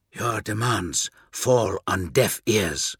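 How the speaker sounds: slow, dry rasp; raspy voice. Acted. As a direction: rasp it like wind through dead leaves. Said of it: "Hriak rasped".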